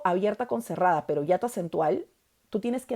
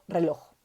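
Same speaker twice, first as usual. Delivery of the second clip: reloj with the weight on loj; stress on last syllable. Shown as a demonstration. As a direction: say reloj, leaning on the final loj. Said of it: "Fuerza de voz de reloj, loj".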